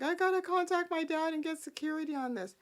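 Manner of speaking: high, fast, urgent voice; lightly voiced rushed Abby; mocking Abby. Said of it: "even Abby's like".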